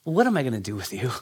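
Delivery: a twinkle in the eye as you say it; Jesus teasing his mother fondly, soft and quick; affectionate teasing. Retold or imitated. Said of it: "a twinkle in his eyes".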